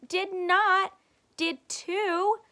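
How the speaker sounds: put-on loud, high childish bickering; kids bickering. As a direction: snap back like a cross little brother and sister. Kids' quarrel.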